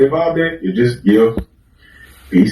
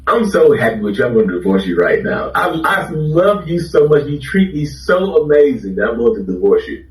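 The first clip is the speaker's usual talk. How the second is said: sarcastic; 3 semitones higher than usual. Retold or imitated. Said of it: "You're just like".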